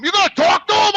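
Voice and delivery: high, rising disbelief; can't believe what he's hearing; mock outraged question; incredulous. Outraged at cousin's offer.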